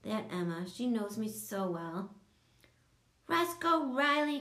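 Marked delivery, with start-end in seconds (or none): 3.3-4.4 high, loud accusing yell. A narrator's reading. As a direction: shout his full name in anger. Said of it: "Coco yelled".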